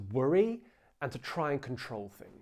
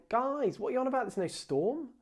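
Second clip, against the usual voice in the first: mock dismissive; 10 semitones higher than usual. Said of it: "Jesus isn't saying".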